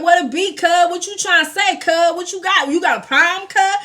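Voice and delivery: mock South Central challenge, high and punchy; Cali accent. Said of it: "the Cali came right out of his throat".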